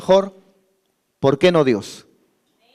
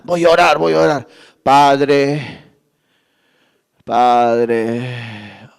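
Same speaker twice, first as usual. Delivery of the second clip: mock sleepy mumble, sinking lower; drowsy late-night prayer; 7 semitones lower, much slower than usual. Preacher mimicking a sleepy member praying at one a.m., drowsy mumble. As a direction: imitate a tired believer praying at one in the morning.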